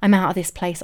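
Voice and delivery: loud relieved thought; loud, slowed relief at being let go. Retold or imitated. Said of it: "I'm sitting there thinking".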